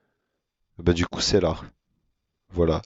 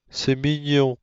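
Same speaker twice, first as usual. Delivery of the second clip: raised higher, mignon falling gently; higher cute take; 6 semitones higher, slower than usual. Shown as a demonstration. Gamer cooing over something cute, pitched higher. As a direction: lift it up for the cute version. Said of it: "je parle comme ça avec un ton monotone".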